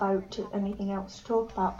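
slipping into a northern English accent. Real, not acted. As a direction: go really northern. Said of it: "I just went really northern".

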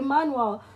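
"manual" said as "man-wal"; mispronunciation. Retold or imitated. Retelling own insistence, "manual" as "man-wal". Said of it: "some Nigerian people just mispronounce things".

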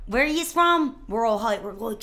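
mock shout. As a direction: yell it back like a crowd.

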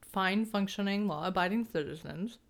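talking around ice in mouth; words slightly blurred by ice in mouth. Real, not acted. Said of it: "Sorry, there's ice in my mouth".

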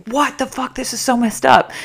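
high-pitched imitation of a reactive viewer; acted-out indignant reaction, pitched high; mock outrage. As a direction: imitate someone riled up by a video. Acts out reactive video viewer.

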